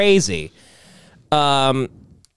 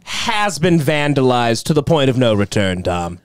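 news reporter parody; 4 semitones lower than usual. Retold or imitated. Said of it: "She goes".

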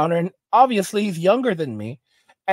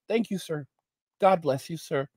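much softer, overly polite thanks; sugary thanks; 2 semitones lower, 6 dB quieter than usual. Retold or imitated. Driver thanking the cop for the ticket, soft sugary politeness. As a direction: thank him with syrupy courtesy.

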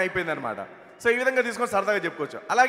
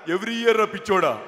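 Hanumantha Rao impression; slower than usual. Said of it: "Hanumantharao గారి bit".

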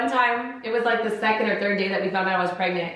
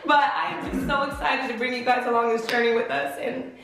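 crying and laughing; 2 semitones higher than usual. Real, not acted. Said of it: "I'm crying again".

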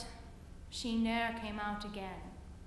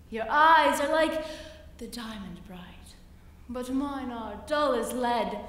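merry spider; 2 semitones lower than usual. Acted. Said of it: "merrily did sing".

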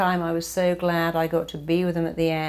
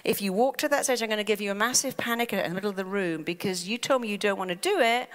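higher, hurried mock warning from the mind; lightly voiced inner mind, higher; mind's voice; 4 semitones higher, faster than usual. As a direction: play the mind as an eager servant raising alarm. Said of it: "Your mind goes".

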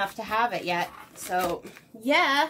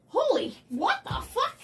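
laughing shout; 11 semitones higher than usual. Real, not acted. Finds bits of wood.

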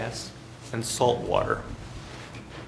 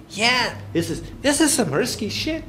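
high-pitched, hammed-up Scottish accent; terrible Scottish accent; 11 semitones higher than usual. Scotsman admitting risk to the lecturer, terrible Scottish accent. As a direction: put on a bad, high Scottish voice. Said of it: "That's my terrible Scottish accent".

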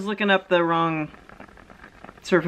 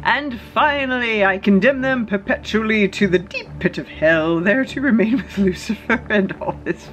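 high, slow, drawn-out proclamation; hammed-up archbishop's climax; dramatic curse-reading; 4 semitones higher than usual. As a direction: condemn them with mock grandeur, stretching key words.

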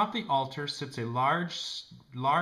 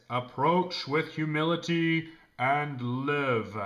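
slow, loud, booming command; booming statue voice; 2 semitones higher, 6 dB louder, slower than usual. A narrator's reading. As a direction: boom it out like a stone idol. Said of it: "a booming voice, apparently coming from the statues".

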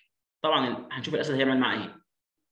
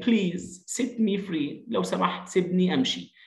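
higher, slow mouse's plea; lightly acted begging in a raised voice; crying out, pleading; 5 semitones higher, slower than usual. Weak mouse asking the lion for release, mild pleading cry. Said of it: "صرخ وقال".

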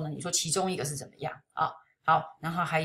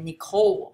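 "Nicole" with the stress on the second syllable; 2 semitones higher, 6 dB louder than usual. Shown as a demonstration. Teacher corrects students' stress, "Nicole" stressed on the last syllable. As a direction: say "Nicole" leaning on the "cole", not the "Ni". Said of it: "好像都有同学把它念第一个音节重音错哈".

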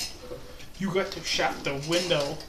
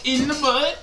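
incredulous; 7 semitones higher than usual. Real, not acted. Incredulous repeat.

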